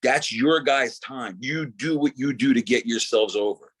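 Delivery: a lightly voiced Scott Hall, slow; a hint of Scott Hall's drawled advice. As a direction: loosely imitate the mentor, slow and easy. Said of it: "He goes".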